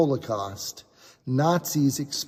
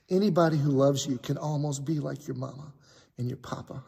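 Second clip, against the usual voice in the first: choked up; 4 dB quieter than usual. Real, not acted. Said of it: "I'm getting emotional".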